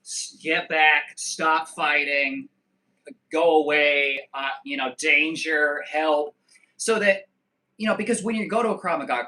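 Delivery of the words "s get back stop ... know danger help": slow, loud called-out commands; shouted commands. Shown as a demonstration. Teaching what Krav Maga class shouts, slow loud commands. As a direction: bark the words out to scare them. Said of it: "to shout things like".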